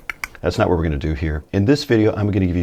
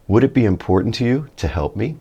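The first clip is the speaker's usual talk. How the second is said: cracking voice; 4 semitones higher than usual. Real, not acted. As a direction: voice cracks on the high rise. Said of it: "Voice cracked a little bit on that last one".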